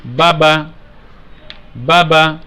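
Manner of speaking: "বাবা" said slowly and clearly, the two "বা" sounds joined; joined letter sounds. Shown as a demonstration. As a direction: model "বাবা" for the children, each syllable crisp. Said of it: "আমি এই দুইটি হরফের উচ্চারণ এখন মিলিয়ে দিচ্ছি". (শিশুদের জন্য "বাবা" স্পষ্ট করে মিলিয়ে উচ্চারণ)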